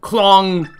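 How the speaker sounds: drawn-out bell clong; slow, ringing bell imitation; imitated bell clang. Player mimicking the game's bell, a drawn-out clang. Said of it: "That's the sound a bell makes".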